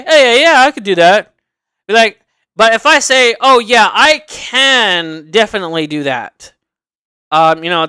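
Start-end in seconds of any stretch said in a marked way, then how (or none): 0.0-1.3 offhand agreement. Shown as a demonstration. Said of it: "the way that I word it". 3.4-6.5 confident, with a drawn-out "can"; persuasive. Shown as a demonstration. Applicant convincing an interviewer they can do the job, persuasive. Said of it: "the persuasion of what you say".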